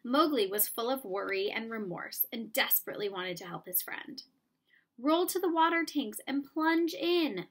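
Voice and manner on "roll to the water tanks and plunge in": high, loud call across the ruins. Acted. Mowgli calls to the panther, high and loud. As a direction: call out urgently to a friend. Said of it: "Mowgli called".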